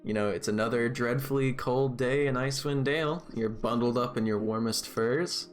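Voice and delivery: steady scene-setting storyteller voice; game master narration. Acted. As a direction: paint the scene for the players. DM sets the scene.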